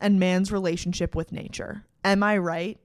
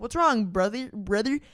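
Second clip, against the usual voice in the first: odd cub voice; 2 semitones higher than usual. Retold or imitated. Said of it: "I don't know why I said it like that".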